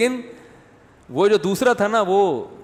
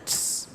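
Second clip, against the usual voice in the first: hissed reply; 9 dB quieter than usual. Retold or imitated. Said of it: "جواب بھی اسی style کا ہوگا".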